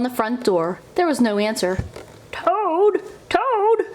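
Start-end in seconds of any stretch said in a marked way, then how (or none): 2.3-3.9 high, excited calling of a name; shouted calling. A narrator's reading. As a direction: call out for a sleeping friend. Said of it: "shouted Frog".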